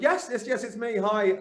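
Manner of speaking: nervous excited reply to the buyer; eager yes. Retold or imitated. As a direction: jump at the call, overeager. Eager answer to buyer's call.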